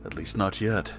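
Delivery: plain reading voice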